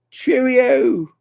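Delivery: cheerio pitched very high, drawn out; high-pitched goodbye call on cheerio; high sing-song farewell. Real, not acted. Repeats goodbye in higher voice.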